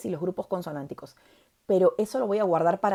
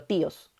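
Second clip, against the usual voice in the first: tíos with the í stronger than the o; stress on the I; 3 semitones lower than usual. Shown as a demonstration. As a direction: say tíos in two syllables, leaning on tí. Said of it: "La I suena más que la O".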